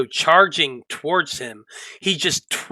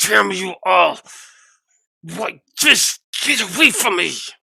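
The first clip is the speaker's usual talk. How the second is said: pitched-up, angry, dismissive growl; 5 semitones higher than usual. Running a tabletop game, the speaker voices the monk at Apollyon, growling. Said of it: "he just growls at you".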